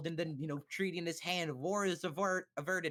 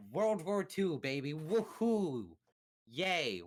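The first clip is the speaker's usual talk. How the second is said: mock cheer; 2 semitones higher, 3 dB louder, much slower than usual. Mock celebrating the war starting.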